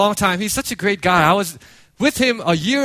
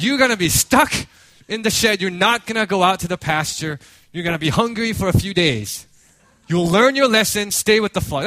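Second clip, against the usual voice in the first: raised, stern sentencing; mock stern punishment. Shepherd putting the lost sheep on probation, mock stern. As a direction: lay down punishment like a fed-up shepherd. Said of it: "put the sheep on probation".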